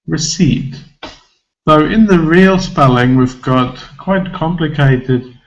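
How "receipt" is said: receipt with a weak first syllable. Shown as a demonstration. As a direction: say receipt with a light, reduced re-. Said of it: "The first syllable will just be spelled".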